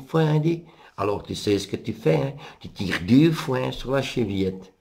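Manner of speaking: mémé voix plus haute, le loup déguisé; loup imitant la grand-mère. Acted. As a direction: fait la grand-mère avec une voix perchée. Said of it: "qui imite maintenant la vioque". (loup déguisé en mémé, voix plus haute)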